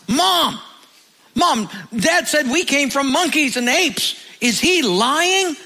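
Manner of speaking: put-on boy running in to Mom, shouting excitedly; excited child shout. Boy runs in calling mom.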